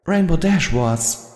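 lightly voiced timid pony; slow, small and high; high slow Fluttershy. A narrator's reading. Fluttershy names the real traitor, slow and high.

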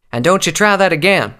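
high, loud triumphant taunt; cocky shout down at the attackers; Applejack crowing. A narrator's reading. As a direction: crow over a beaten enemy. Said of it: "Applejack crowed over the fallen ladder".

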